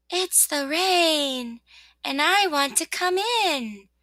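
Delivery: high, slow little rain voice; small pleading voice, words drawn out; soft little voice. Acted. Rain asking rosebud to let it in, soft little voice. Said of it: "said a soft little voice".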